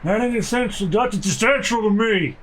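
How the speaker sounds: lightly voiced gruff cowboy; a hint of a whispery outlaw; Arthur voice. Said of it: "I think I've got an Arthur impression down".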